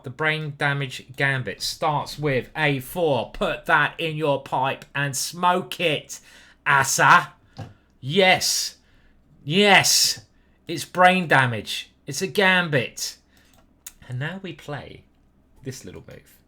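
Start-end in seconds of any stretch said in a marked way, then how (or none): 0.0-6.2 proud slow announcement. Real, not acted. Proudly announcing his gambit. 6.6-13.2 loud gleeful gloating, higher and louder; loud triumphant boast; triumphant shout. Real, not acted.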